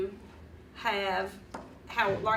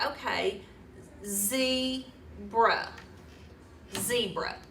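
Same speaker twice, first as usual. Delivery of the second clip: zebra said in two beats, then blended; blending syllables aloud; much slower than usual. Shown as a demonstration. Child blending zebra for the teacher, slowly. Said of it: "they're gonna say".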